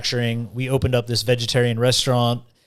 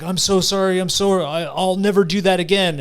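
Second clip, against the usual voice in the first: higher, pleading promise, lightly acted; imitated desperate apology; 5 semitones higher than usual. Drinker promising his liver to stop, mock pleading. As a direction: re-enact begging to be forgiven.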